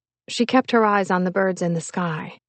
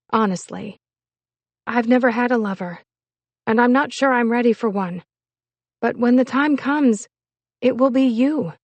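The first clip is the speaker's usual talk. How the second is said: higher-pitched, heartfelt woman's voice; earnest young woman; 4 semitones higher, 4 dB louder than usual. Acted. Woman confessing to her silent lover, earnest and high. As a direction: plead honestly, with emphasis.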